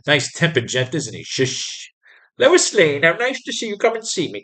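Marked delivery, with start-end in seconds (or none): 2.4-4.4 put-on high, thin old lady greeting Lois; a lightly voiced frail granny welcoming a visitor. Voicing the old lady in the comic.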